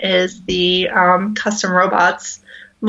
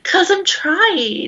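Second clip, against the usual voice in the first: monotone robot voice; 8 semitones higher, slower than usual. Pretend. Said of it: "I'm trying to be as monotone as possible".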